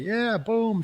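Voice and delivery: put-on high, bright little-girl cheer; mock excited cheer. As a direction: squeal it like an eager kid. Daughter cheering as she jumps.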